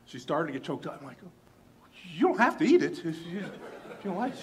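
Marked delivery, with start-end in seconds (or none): 2.1-4.4 high, laughing awkward reassurance; flustered chuckle through the words; nervous laugh. Retold or imitated. Flustered by her tears.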